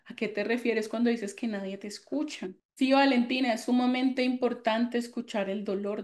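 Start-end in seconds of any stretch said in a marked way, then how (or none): 0.1-2.5 put-on softer, calm question to a hurt child; gentle question. Shown as a demonstration. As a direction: ask it softly, inviting him to open up. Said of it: "Yo le diría". (pregunta suave y tranquila)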